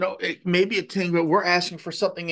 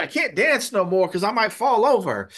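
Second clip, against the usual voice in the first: higher-pitched, animated quote of an excited mother; excited elderly mother; 4 semitones higher, 3 dB louder than usual. Retold or imitated. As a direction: imitate her giddy excitement, pitch lifted. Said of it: "she was so excited".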